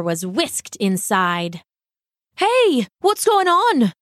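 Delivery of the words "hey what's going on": high, louder cry of alarm; startled cry. Acted. Loosemore cries out as he's whisked inside, startled. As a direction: yelp it out as he's grabbed. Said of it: "he cried".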